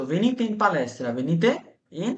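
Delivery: "venite in palestra" said very slowly, word by word; slow teaching demo. Shown as a demonstration. Teacher showing the plural command, slow and clear. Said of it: "যেমন আমি বললাম যে".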